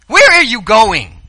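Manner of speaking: high, slow puzzled question; a lost follower's plaintive question; worried disciple. Acted. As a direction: ask it like a confused follower. Disciple voiced in retelling.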